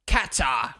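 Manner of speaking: Qatar. said KAT-ah, flat A, no R at the end; Qatar. mimicking a commentator, KAT-ah with R dropped; Crofty's pronunciation. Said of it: "Crofty, he should know how to pronounce Qatar properly".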